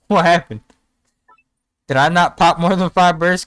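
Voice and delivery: loud, outraged, half-joking; indignant disbelief. Real, not acted. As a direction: protest being left out. Left out of five burst club.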